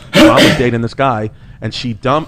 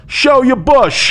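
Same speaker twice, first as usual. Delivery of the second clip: laughing, much higher, slow mock shout; retold yell; 12 semitones higher, 4 dB louder, much slower than usual. Son retells dad heckling the ballet instructor, laughing shout. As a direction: belt it out while cracking up. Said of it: "my dad just yells".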